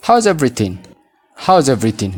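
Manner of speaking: "How's everything" with how and is merged into HOWZ; contracted model phrase. Shown as a demonstration. Teacher modelling for learners to repeat, contracted and linked. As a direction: say "How's" as one syllable, running into everything. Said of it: "Mee na waliin jedhaa".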